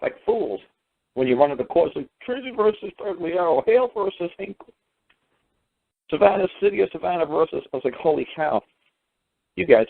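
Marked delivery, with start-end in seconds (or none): 2.2-7.6 mocking citation list. Mocking the students' case citations.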